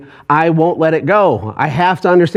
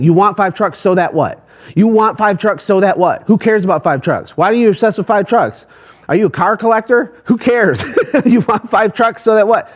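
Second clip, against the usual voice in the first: pushing, incredulous; 5 semitones higher than usual. Retold or imitated. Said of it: "I kept saying".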